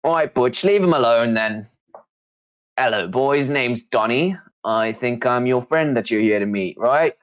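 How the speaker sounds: small, high, cheeky halfling voice. Acted. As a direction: pipe it up like a little halfling. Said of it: "as a small voice goes up".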